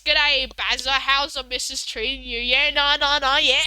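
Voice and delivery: lightly hammed-up Aussie accent; Australian impersonation. Impersonating an Australian greeting Bazza, broad Aussie accent. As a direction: play up the broad Australian a little. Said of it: "for them to impersonate Australians".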